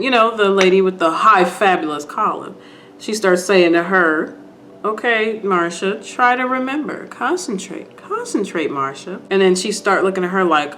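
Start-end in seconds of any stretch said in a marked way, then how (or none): 4.8-9.2 hushed, patient urging to remember; gentle coaxing. Retold or imitated. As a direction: softly imitate a lady coaxing. Lady coaxes Marsha to remember.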